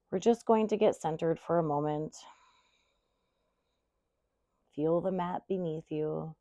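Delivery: guided centering. Real, not acted. Yoga teacher helping students get centered, soft guided centering. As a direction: ease them into stillness, trailing softly.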